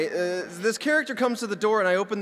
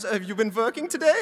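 higher mock German accent; German Willy Wonka; 4 semitones higher than usual. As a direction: inquire as the quirky German waiter. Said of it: "like, a German Willy Wonka".

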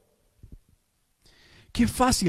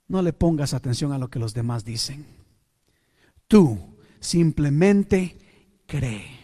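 tag; 6 semitones lower than usual. Acted. Jesus reassures Jairo after the hush.

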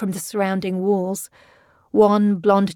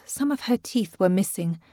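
usual speaking voice

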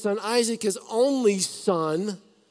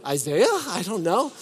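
mock whiny brush-off; 6 semitones higher than usual. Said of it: "I probably would have said".

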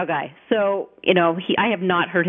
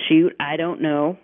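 slow Oklahoma drawl, "Shoot" stretched; lazy Oklahoma twang, lightly done; a touch of Oklahoma drawl; 3 semitones lower, slower than usual. Retold or imitated. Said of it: "long drawl kind of thing".

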